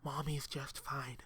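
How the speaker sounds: put-on slow, soft, creepy child voice; whisper voice. A narrator's reading. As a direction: breathe it out slowly and softly. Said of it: "Timmy's whisper voice".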